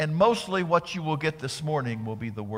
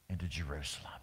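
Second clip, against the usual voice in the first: much lower and softer, trailing off; hushed, fading; 12 semitones lower, 13 dB quieter, much faster than usual. Real, not acted. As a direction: let it sink away. Fading narration.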